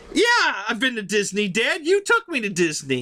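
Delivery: high, emphatic protest; insistent. Retold or imitated. Correcting dad about the Disney trip, insistent. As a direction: set him straight, incredulous.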